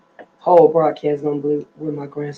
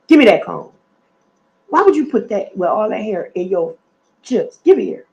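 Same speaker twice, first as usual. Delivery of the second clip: louder, firm "give it here"; firm scolding; 2 semitones higher, 4 dB louder than usual. Real, not acted. Grandma loudly telling grandson to hand over the cone.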